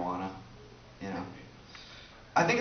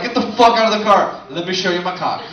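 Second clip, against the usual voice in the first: mock drunk yell; 3 semitones higher, 6 dB louder than usual. Drunk guy banging on hood.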